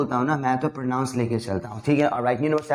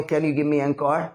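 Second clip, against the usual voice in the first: slow demo; much slower than usual. Shown as a demonstration. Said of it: "किसी से पूछ के देखो".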